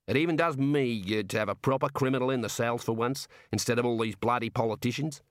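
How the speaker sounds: chatty Aussie warder; warder with Australian accent. Acted. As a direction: play an easygoing Australian prison guard.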